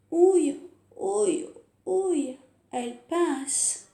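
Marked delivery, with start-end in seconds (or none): 0.1-2.4 ouch cries. Shown as a demonstration. Pinch cries.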